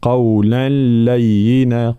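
قولا لينا slow, no nasal; recited idgham. Shown as a demonstration. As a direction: merge قولا into لينا smoothly. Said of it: "فنقول مثلًا". (إدغام بلا غنة ببطء)

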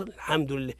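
الحمد لله run on with its opening hamza dropped; quick, soft الحمد لله, no glottal onset; swallowed hamza. Shown as a demonstration. Teacher mimics a reciter eating the hamza, clipped-onset mistake. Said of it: "يأكل الهمزة".

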